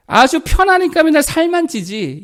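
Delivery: high, slow, put-on sneer of a mean husband; nasty husband jibe. A husband mocking his wife's weight, high and sneering. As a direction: drag it out like a smug insult. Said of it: "제일 듣기 싫어하는 말이래요".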